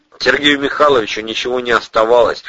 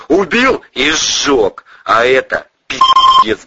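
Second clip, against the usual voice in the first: raised voice; 6 semitones higher, 5 dB louder, slower than usual. Acted. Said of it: "повысил голос".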